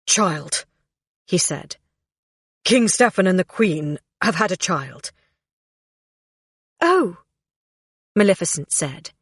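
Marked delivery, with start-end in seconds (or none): 0.0-5.1 snapping to attention. A narrator's reading. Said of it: "Dierval snapped to attention". 6.8-7.2 high startled oh; surprised. A narrator's reading. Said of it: "surprised by the wave of jealousy".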